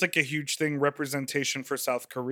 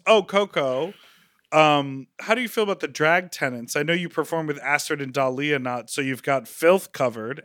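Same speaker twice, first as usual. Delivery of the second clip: shady. Retold or imitated. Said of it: "throws a little shade".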